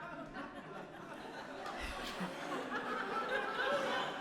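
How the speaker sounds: long high breathy laugh; big laugh. Real, not acted. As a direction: laugh at your own punchline. Story punchline laugh.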